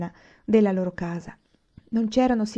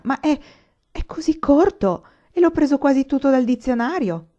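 amazed protest; 7 semitones higher, 5 dB louder than usual. Acted. Laura protests, amazed by praise.

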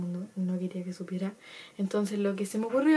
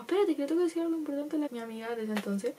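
fast, higher, panicked stalling; rushed stalling; 6 semitones higher, faster than usual. Retold or imitated. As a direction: blurt it out to buy time. Stalling mom, friend arrives. (excusa apurada y aguda)

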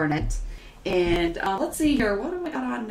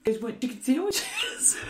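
hawking food; 13 semitones higher than usual. Retold or imitated. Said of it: "he's like".

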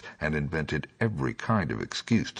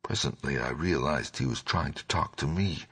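ordinary delivery

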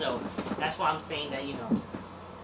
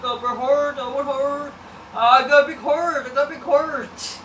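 eager dreamy fan voice, a bit higher; mocking wrestler; 3 semitones higher than usual. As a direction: ham up a wide-eyed rookie.

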